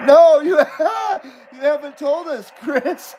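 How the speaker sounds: laughing protest to Chris. Real, not acted. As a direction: giggle through the words.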